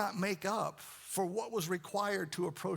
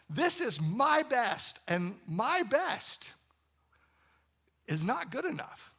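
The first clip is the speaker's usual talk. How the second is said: David's anguished plea; 4 semitones higher, 4 dB louder than usual. Retold or imitated. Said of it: "he's basically saying".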